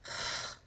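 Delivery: a quiet long exhale of letting go; soft releasing sigh. Retold or imitated. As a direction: breathe out the tension softly. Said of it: "he finally just kinda let out this".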